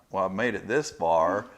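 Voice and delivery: light, loud movie-character impression; Forrest Gump. Tattooist comparing the growing sleeve to a film, light impression. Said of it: "Forrest Gump".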